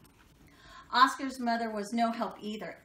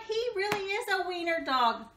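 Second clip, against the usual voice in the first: mocking; 10 semitones higher, 4 dB louder than usual. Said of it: "they cried".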